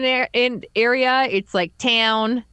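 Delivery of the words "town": small-town Bruce County vowel, drawn out; Bruce County accent. Retold or imitated. Showing a friend how Bruce County locals talk, local accent. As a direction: say it in rural Ontario Bruce County dialect. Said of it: "I do hear a lot of people say".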